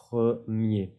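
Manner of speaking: "Premier" in two measured syllables, silent final r; French pronunciation demo. Shown as a demonstration. Teacher repeats the word for learners, final R of "Premier" silent. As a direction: end "Premier" on "yé", dropping the R. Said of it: "No vayan a pronunciar la R".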